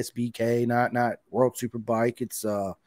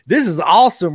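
imitating dad's excitement; 6 semitones higher, 9 dB louder than usual. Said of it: "He was like".

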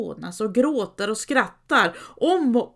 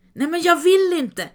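high, louder pleading; frightened sidekick begging; whiny refusal; 9 semitones higher, 6 dB louder than usual. Acted. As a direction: whine like a scared child. Sancho refuses the picture.

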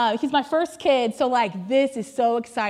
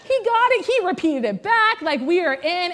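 thrilled; 5 semitones higher than usual. Real, not acted. Mom thrilled son repeated it.

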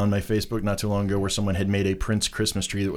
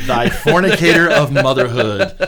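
laughing mock Old English; 2 semitones higher, 7 dB louder than usual. Repeating the meme in archaic style.

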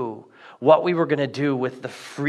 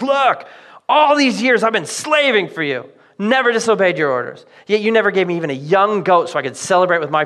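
resentful complaint; 2 semitones higher, 4 dB louder than usual. Acted. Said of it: "He looks at his dad and he says".

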